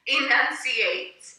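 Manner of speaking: slow, loud, syllable by syllable; enunciated. Shown as a demonstration. Teacher reminds viewers how to speak, enunciated. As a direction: break the word into crisp syllables. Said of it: "and enunciating".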